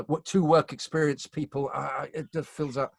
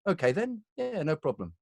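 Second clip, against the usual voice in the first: breezy compliance; 6 semitones higher than usual. Retold or imitated. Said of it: "you go".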